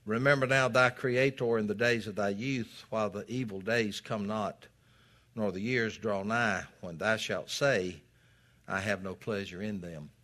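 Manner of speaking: scripture reading. Acted. Preacher reads scripture aloud.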